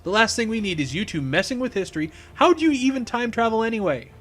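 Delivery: exasperated protest. Acted. Engineer objects to criminals messing with history, exasperated. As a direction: push the pitch up in disbelief. Cisco protests at time travel.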